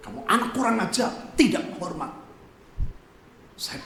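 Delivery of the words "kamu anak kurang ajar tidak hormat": angry father. Retold or imitated. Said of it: "Dan ayah saya emosi".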